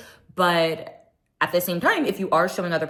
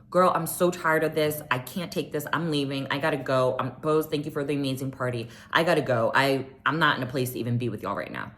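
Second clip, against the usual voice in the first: lower-pitched, controlled model of bowing out; composed exit; 4 semitones lower than usual. Shown as a demonstration. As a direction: show how to leave without a scene. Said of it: "there's a way to be like".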